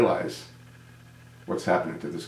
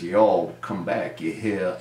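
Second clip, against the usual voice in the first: slow, drawn-out Southern twang; a hint of a put-on Southern accent; mock Southern accent; slower than usual. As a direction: lightly mimic a Southern politician's folksy drawl. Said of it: "He puts on his ... accent".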